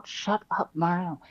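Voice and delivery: hushed whisper; whispered aside. Acted. Andrew whispers to someone hidden in the closet. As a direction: hiss it under your breath. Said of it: "It sounded like you said, "Shut up, Mario".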